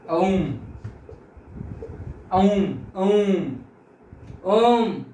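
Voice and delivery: drawn-out chanted ओम; ओम held very slowly; prolonged om. Shown as a demonstration. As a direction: stretch ओम long like a chant. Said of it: "ऐसे बोलते हैं ना".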